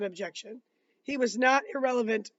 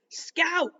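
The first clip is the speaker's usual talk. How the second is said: a breathy unvoiced whisper of a name; breathed whisper; 7 semitones higher, 4 dB louder than usual. A narrator's reading. Jem whispering to his sister in the balcony. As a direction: whisper it urgently so only Scout hears. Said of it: "breathed Jem".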